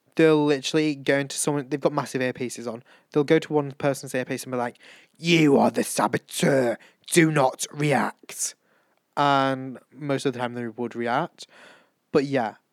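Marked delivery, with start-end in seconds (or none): 5.2-8.6 creepy, spooky, slow, scary voice. Retelling what a voice tells one kid through an earpiece, in a scary voice. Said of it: "do you know the scary voice I was talking about?".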